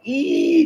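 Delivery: high-pitched mock squeal; a sharp high "ee" of dismay at the stuck cards. Squealing in dismay at her soaked first tarot deck. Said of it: "So I was like".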